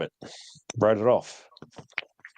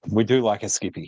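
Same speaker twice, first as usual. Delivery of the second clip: whispering; 2 semitones lower than usual. Real, not acted. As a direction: breathe it as a secret. Whispered aside about the name.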